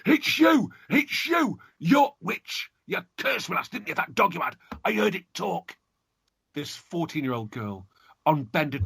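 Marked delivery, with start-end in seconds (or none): 0.1-5.8 shouted. Acted. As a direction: scream the accusation.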